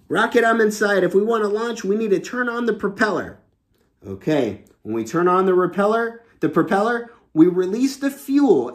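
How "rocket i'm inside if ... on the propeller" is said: astronaut voice. Acted. Astronaut character talks to Rocket.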